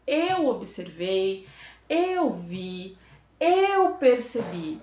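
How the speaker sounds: "eu" leaned on, slow and deliberate; stress on eu. Shown as a demonstration. Showing students to lead with "eu", slow and stressed. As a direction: hit "eu" in "eu observei" each time. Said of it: "sempre no tom do".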